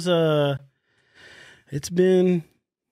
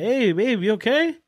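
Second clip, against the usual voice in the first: imitating calling through a door; 7 semitones higher than usual. Knocking on bathroom door.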